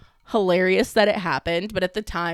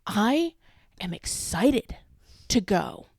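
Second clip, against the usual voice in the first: imitating crying friend; 6 semitones higher, slower than usual. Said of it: "she's like".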